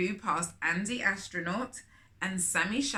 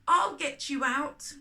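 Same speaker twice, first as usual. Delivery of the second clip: reassuring call; 5 semitones higher, 5 dB louder than usual. A narrator's reading. Rescuing her friend.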